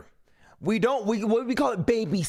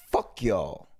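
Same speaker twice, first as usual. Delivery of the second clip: DJ Juice voice. Retold or imitated. Tired friend DJ Juice blowing off the group, low dismissive growl. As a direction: drop way low and brush them off. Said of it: "D J Juice was like this".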